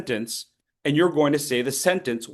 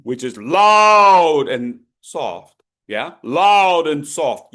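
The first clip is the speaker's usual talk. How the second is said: slow, with a louder "loud"; loud and soft shown; 7 dB louder, slower than usual. Shown as a demonstration. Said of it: "is both volume".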